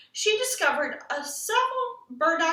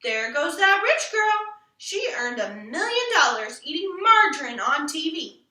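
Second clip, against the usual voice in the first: imagined admiring crowd; 4 dB louder than usual. Pretend. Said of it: "pretending people were saying".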